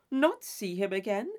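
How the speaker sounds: Isabella echoes Catherine in disbelief, rising; surprised echo. Acted. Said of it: "My dearest creature".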